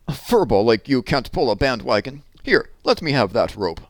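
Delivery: a cocky dog taking over the job; mild know-it-all dog; schnauzer's voice. Acted. Schnauzer speaks in story.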